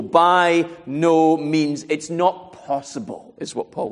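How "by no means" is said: very slow, drawn-out "By no means", every word weighted; most emphatic denial. Retold or imitated. Preacher repeats Paul's strongest no, with utmost emphasis. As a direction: stretch out "By no means" word by word, allowing no doubt. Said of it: "the most emphatic language at his disposal".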